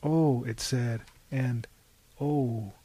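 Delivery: soft, low sighing oh. Acted. The car after the crash, a soft sigh. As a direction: breathe it out softly.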